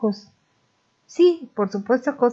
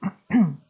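coughing fit. Real, not acted. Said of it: "me dio un ataque de tos espantoso".

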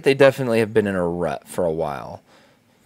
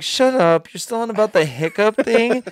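incredulous; 9 semitones higher than usual. Retold or imitated. Wife scoffing.

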